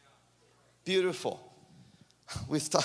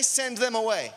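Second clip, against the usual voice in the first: "Send them away" pitched high with emphasis; "Send them away" as an emphatic prompt; emphatic call-out; 5 semitones higher, 3 dB louder than usual. Shown as a demonstration. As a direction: press each word of "Send them away" for the crowd to repeat. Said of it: "Away, with emphasis".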